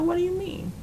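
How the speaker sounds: high, shocked what do you mean; shocked question. Retold or imitated. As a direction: ask it in high disbelief. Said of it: "I said".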